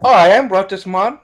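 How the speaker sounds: bad Russian accent. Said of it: "I can't do it".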